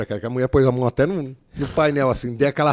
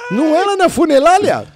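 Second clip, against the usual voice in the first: very high, louder mock boss saying "funelália"; boss with Cebolinha speech; 7 dB louder than usual. Boss scolds the driver, teller squeals her line high and loud. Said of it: "Ela metia o Cebolinha".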